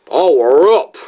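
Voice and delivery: second, punchy stab at mimicking him; bad impression. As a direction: overdo the mimicked catchphrase, rising on up. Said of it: "probably wasn't any better".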